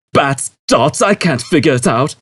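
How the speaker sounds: frustrated. A narrator's reading. Zaphod frustrated.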